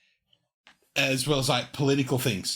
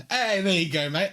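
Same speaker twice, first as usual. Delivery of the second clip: raised, cheering voice with a laugh; delighted encouragement; 6 semitones higher than usual. Retold or imitated. Tourist praising concierge for saying g'day, delighted. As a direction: cheer on a learner.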